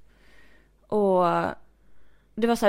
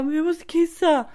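loud, higher, drawn-out mock plea; urgent complaint; 7 semitones higher, 6 dB louder than usual. Boyfriend telling girlfriend he must pee, urgent mock plea. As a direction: imitate an urgent, whining announcement.

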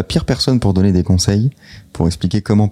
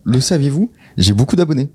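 hammed-up quiz-show teaser, pitched higher; mock trivia presenter; 7 semitones higher than usual. Playing a trivia host for his co-hosts, mock teaser voice. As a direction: tease the fake fact like a game host, voice up. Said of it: "je voulais vous faire un le saviez-vous".

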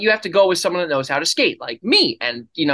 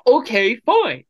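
higher put-on voice; mock grudging agreement, pitched up; shadow voice; 8 semitones higher, 3 dB louder, slower than usual. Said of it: "And do the shadow voice again".

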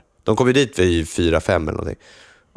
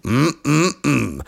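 higher-pitched savouring "mm"s; imitated ad hum; 5 semitones higher, much slower than usual. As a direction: mimic the advert's three hums. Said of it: "säg så här".

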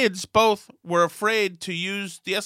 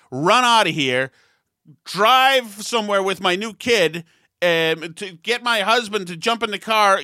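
higher, breezy mocking shopper voice; mock impulsive kidnapper; 3 semitones higher, 4 dB louder than usual. Father mocking the imagined lingerie-shopping kidnapper, higher sarcastic voice. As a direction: lampoon the absurd kidnapper idea. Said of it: "is gonna say".

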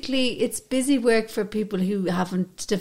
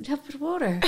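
Irish mother; 3 semitones higher, 5 dB quieter, much faster than usual. Retold or imitated. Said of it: "She's like".

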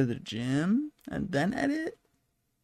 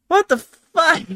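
sudden high, loud outburst; exasperated shout; 14 semitones higher, 9 dB louder, slower than usual. Real, not acted. Host breaking off mid-point, shouting in disbelief. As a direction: burst out in disbelief.

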